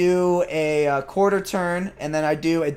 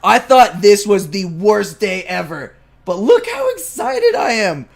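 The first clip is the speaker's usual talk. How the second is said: excited to Andre; 5 dB louder than usual. Retold or imitated. Telling Andre the bad day turned good, thrilled. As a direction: hype your training partner up. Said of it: "I'm like".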